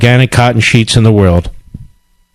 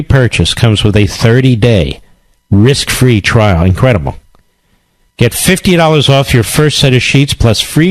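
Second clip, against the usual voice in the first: upbeat sponsor read. Acted. Host reading a sheets sponsor ad, upbeat pitch. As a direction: sell it like a radio ad.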